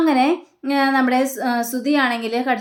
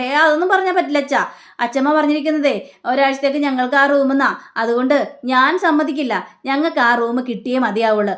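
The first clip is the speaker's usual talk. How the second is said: louder, insistent refusal to the father; retold stubborn protest; 2 semitones higher, 4 dB louder than usual. Son loudly refuses his father, making a scene over the room. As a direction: dig in your heels, voice up. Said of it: "ഒച്ചപ്പാടുണ്ടാക്കുകയാണ്".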